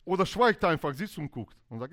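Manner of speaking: usual speaking voice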